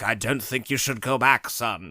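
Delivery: a faint, badly faked British butler accent; a half-hearted stab at a posh British butler; bad Alfred accent. The butler warns the hero not to return, in a barely British accent. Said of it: "That's a horrible accent".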